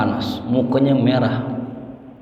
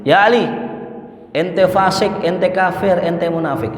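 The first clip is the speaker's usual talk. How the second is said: mock insult; 5 semitones higher than usual.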